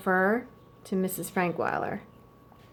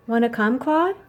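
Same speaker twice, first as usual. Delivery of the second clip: put-on boy's eager question; 4 semitones higher, 5 dB louder than usual. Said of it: "The girl said nothing".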